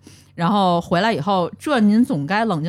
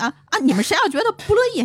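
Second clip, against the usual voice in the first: ordinary delivery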